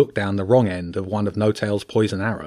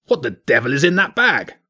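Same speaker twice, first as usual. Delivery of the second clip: gruff badger king; 4 semitones higher than usual.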